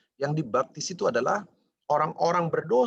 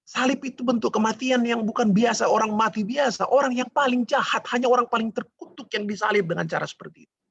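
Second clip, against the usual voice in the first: loud, higher-pitched driving preacher voice; impassioned preaching; 5 semitones higher, 4 dB louder than usual. Acted. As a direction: hammer each repeated phrase home to the congregation. Preaches with rising force.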